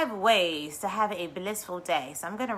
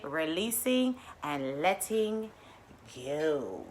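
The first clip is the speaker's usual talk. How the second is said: slow soothing; 4 semitones lower, 7 dB quieter, much slower than usual. Real, not acted. Mindfulness theme, slowed.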